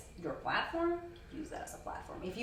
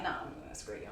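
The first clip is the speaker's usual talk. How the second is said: put-on Valley Girl voice; 6 semitones lower, 6 dB quieter, faster than usual. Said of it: "I love your Valley Girl voice".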